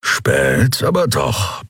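mildly grumbled remark; grumbling. A narrator's reading. Keru on the Whitecoats' late arrival, grumbling. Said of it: "brummte Keru".

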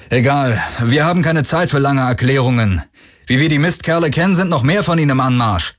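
high, hurried warning; urgent survivors' leader. Acted. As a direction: brush it aside and press on urgently. Parker urges haste in story.

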